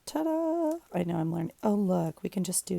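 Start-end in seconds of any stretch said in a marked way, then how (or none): 0.0-0.8 ta-da. Real, not acted. Reveals finished step to viewers.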